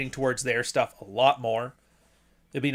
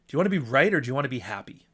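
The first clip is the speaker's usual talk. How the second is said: catchphrase, quick; faster than usual. Shown as a demonstration. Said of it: "I say that all the fucking time".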